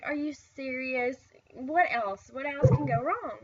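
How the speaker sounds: loud exasperated what else can go wrong; frustrated mom at the clinic counter, exasperated; aggravated outburst. Retold or imitated. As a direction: vent it like the last straw. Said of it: "I was getting really aggravated".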